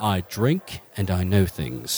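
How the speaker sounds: slow, measured character voice; slow parody catchphrase delivery; Tyrion Junior. Acted. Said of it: "Tyrion Junior".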